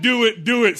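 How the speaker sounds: high, loud, peppy repeat; eager young stage. Acted. Preacher mimics the young listeners' stage, high and loud. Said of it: "You're still at that".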